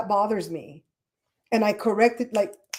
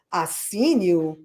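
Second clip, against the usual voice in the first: incredulous quote; 2 semitones lower, much slower than usual. Retold or imitated. Mocks a misspelt grammar error.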